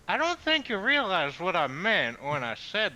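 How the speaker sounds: talking while chewing wood; words round something in the mouth. Real, not acted. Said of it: "'Cause I'm chewing on a piece of wood".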